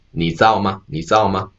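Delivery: 你知道吗 as three syllables, ni zao ma; fuse zhi dao into zao in 你知道吗; contracted. Shown as a demonstration. Reading the new characters aloud, 你知道吗 as ni zao ma. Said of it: "it will turns into".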